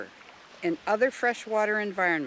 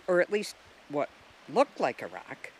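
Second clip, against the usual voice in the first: usual speaking voice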